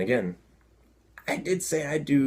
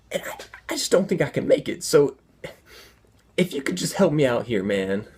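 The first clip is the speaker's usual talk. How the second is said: pleading, somewhat raised and urgent; desperate appeal through a closed door; agitated man; 2 semitones higher, 3 dB louder than usual. Retold or imitated. Man needing the toilet begs a stranger, mildly agitated. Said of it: "guy's getting a little agitated".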